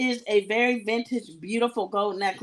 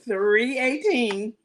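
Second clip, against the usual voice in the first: holding back laughter; slower than usual. Real, not acted. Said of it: "If I can keep a straight face".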